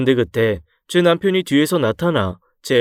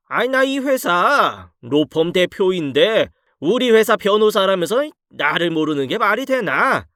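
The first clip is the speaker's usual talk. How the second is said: put-on a higher, lecturing older man's voice; stern law-firm boss; 4 semitones higher than usual. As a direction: scold him like a boss catching an impostor. Law-firm boss scolds impostor.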